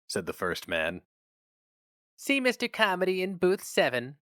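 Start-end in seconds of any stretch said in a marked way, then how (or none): 2.2-4.2 lightly voiced young woman, higher pitch; a hint of a brisk office receptionist; sober receptionist.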